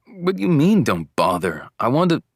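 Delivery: high, loud burst of disbelief; protest, startled, as if cut short; taken aback. A narrator's reading. Half-awake boyfriend challenges girlfriend's brush-off, taken aback.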